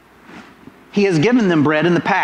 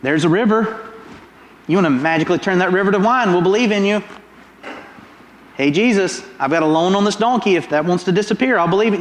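quick mocking dares tossed at Jesus; goading taunt; faster than usual. Preacher voicing the crowd goading Jesus, fast mocking taunts. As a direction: needle him, fast and cheeky. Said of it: "they're goading Jesus".

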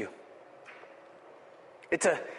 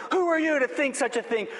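higher-pitched, mildly mocked accusations; accusing; 4 semitones higher than usual. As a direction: hammer out each challenge like an accuser. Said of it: "the enemy begins shouting accusing thoughts".

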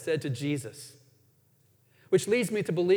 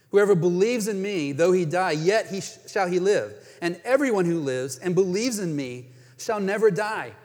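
proclaiming; 4 dB louder than usual. Acted. Proclaiming Jesus' promise.

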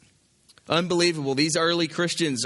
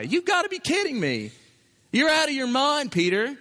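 higher, incredulous objector pleading with Peter; imagined objector; 3 semitones higher than usual. Retold or imitated. A worried believer challenging Peter, incredulous. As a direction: protest like a shocked church member. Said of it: "I can just hear somebody saying to Peter".

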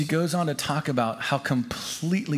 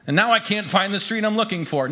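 higher-pitched, lively storytelling; animated, lost; 6 semitones higher than usual. A narrator's reading. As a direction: tell it as a lost but still hopeful newcomer. Newcomer lost but still hopeful.

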